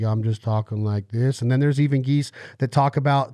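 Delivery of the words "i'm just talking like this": Imitating a country singer's voice. Retold or imitated. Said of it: "you got the singer, like".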